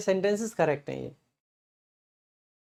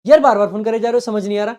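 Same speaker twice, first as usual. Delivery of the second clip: loud, irritated snap at a caller; fed up with the ringing phone; annoyed on the phone; 2 semitones higher, 6 dB louder, faster than usual. Retold or imitated. Teacher acting out being interrupted at lunch, loud and irritated. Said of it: "मैं गुस्से में phone उठाता हूं".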